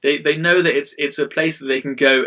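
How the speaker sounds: thrilled at the news, lightly voiced; excited. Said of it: "And I'm like".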